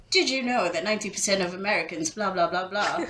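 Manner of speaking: quick leading question delivery; bait-and-hook lead-in. Acted. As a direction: dangle it like a presenter's hook. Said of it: "that bait and hook kind of leading accent".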